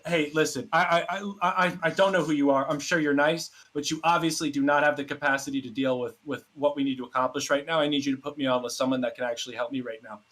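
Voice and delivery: mildly indignant retold complaint; full-blown Karen mode. Retelling his call to the hotel, full Karen. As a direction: lightly imitate a demanding customer. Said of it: "I was full-blown Karen mode".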